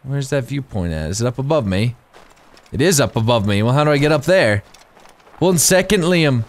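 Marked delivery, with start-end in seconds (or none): 5.4-6.4 a rough, higher Irish accent try; attempted Irish accent. Shown as a demonstration. Gamer trying his Irish character's line, a half-hearted Irish accent. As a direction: put on a shaky Irish lilt, the accent barely there. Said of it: "prepare for my Irish accent".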